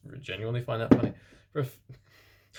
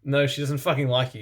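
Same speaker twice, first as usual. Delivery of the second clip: yell; 3 semitones higher, 5 dB louder than usual. Acted. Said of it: "yelled Draco".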